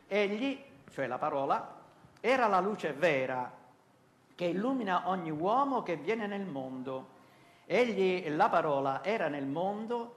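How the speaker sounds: measured, solemn Bible reading; declaimed verse with pauses between clauses; scripture reading. Acted. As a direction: read the Gospel aloud in deliberate phrases. Reads the Gospel aloud.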